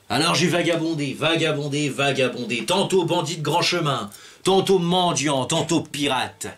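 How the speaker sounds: theatrical storytelling. Acted. Pirate recounting his wandering lives to the audience, theatrical flourish. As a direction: roll out each role with a storyteller's flourish.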